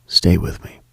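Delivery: ordinary talk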